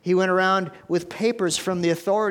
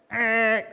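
buzzer eh; 4 semitones higher than usual. Shown as a demonstration. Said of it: "It's the buzzer".

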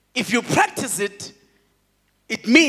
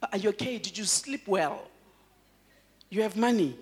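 mock concern; 7 dB quieter than usual. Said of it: "We even ask you".

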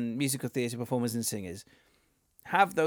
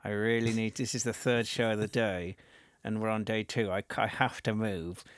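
inner thought; 3 semitones lower, 6 dB quieter than usual. Retold or imitated. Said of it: "I just started thinking".

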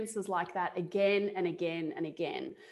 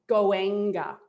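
masculine voice; 6 dB louder than usual. Retold or imitated. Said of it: "my voice was different".

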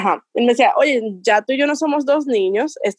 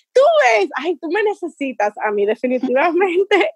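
playful teasing; 5 semitones higher than usual. Retold or imitated. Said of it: "Y empecé a preguntarle".

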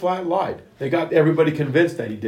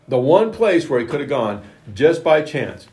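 louder, higher, marvelling at the chance; excited preaching; 4 semitones higher, 6 dB louder than usual. Real, not acted. Preacher tells the congregation of the lucky arrow, louder with wonder. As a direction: build it up with wonder.

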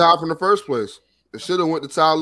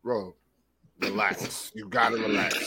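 frat bro; 8 semitones lower, 6 dB quieter than usual. Acted. Teasing friends, put-on bro voice.

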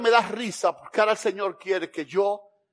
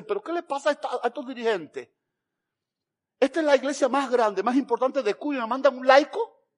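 indignant pastor; 4 semitones higher than usual. Retold or imitated. Pastor indignant at leaders, acted.

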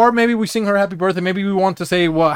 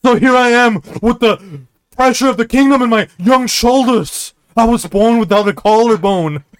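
melodramatic rant; 5 semitones higher than usual. Acted.

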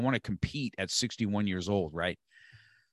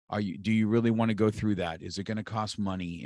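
doubting voice; 3 dB quieter than usual. Retold or imitated. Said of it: "the other voice comes in and says".

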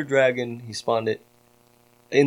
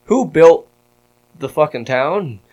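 retold heated challenge, punched words; pissed-off retort; 3 semitones higher, 4 dB louder than usual. Town's builder confronting his accusers, pissed-off retort. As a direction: challenge them with irritated rhetorical questions. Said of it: "then I'm pissed".

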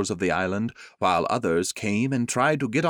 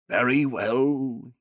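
said sadly; 4 semitones higher, 3 dB louder, slower than usual. Acted. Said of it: "he said sadly".

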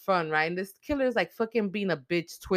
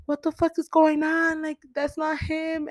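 much higher, stunned and breaking; can't accept he's dead; shocked disbelief; 11 semitones higher than usual. Acted. Gale seeing Dewey's body, high-pitched shocked disbelief.

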